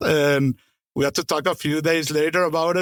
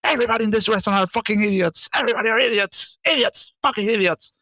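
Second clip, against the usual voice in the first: retold screaming; 5 semitones higher, faster than usual. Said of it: "started screaming".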